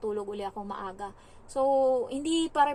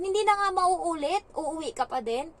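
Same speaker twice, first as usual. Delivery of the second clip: put-on high, pleading child's voice; a child begging not to be left behind; child's promise; 6 semitones higher, 4 dB louder than usual. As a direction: promise like a scared kid, pitched up. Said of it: "Sabi niya ganun".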